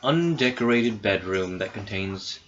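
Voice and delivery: measured game master narration; scene setting. Acted. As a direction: read the room description evenly. Game master reads room description.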